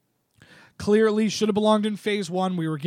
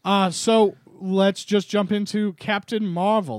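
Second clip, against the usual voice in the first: Marvel announcer voice. Acted. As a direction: introduce it like an old newsreel. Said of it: "that was my Marvel announcery voice".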